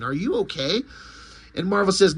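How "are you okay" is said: compassionate. Acted. Hero checking on the crying Captain Marvel, compassionate. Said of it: "he approaches him with compassion".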